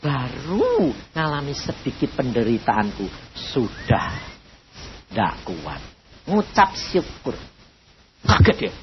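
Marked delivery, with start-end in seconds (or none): 0.0-7.4 voice of God. Retold or imitated. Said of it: "Tuhan ngomong, datang".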